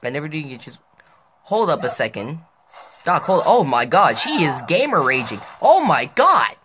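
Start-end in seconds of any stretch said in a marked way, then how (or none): 3.1-6.6 shocked rising exclamation; panicking gamer. Real, not acted. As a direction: react in disbelief. Opponent rage quits.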